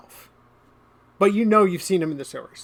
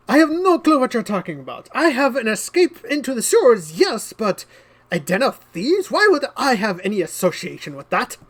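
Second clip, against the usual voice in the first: feigned innocence; 5 semitones higher than usual. Acted. Noble lies convincingly.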